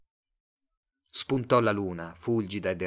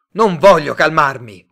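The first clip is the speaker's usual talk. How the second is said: loud, high, furious yell; shouting; 5 semitones higher, 14 dB louder than usual. A narrator's reading. Simon refusing Mr Tate's call for calm, shouting. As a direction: shout back in defiance. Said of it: "urlò Simon".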